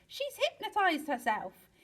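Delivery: high, slow exclamation; astonished cry. A narrator's reading. Mister Penguin realises what happened to her, astonished. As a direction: spell out a startling discovery. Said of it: "he cried".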